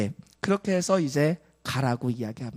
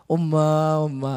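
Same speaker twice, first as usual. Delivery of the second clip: long, drawn-out call for mother; crying young calves; 4 dB louder, slower than usual. Acted. Calves left behind calling their mother, mock crying. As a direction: imitate calves wailing for mom. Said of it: "자기의 새끼들이 울기 시작합니다".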